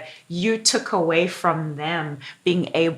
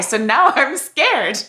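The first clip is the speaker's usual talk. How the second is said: slow words broken by laughter; laughing; 7 semitones higher, slower than usual. Real, not acted. Friend teasing Ruby about making her cry, laughing slowly. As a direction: laugh through the confession, drawn out.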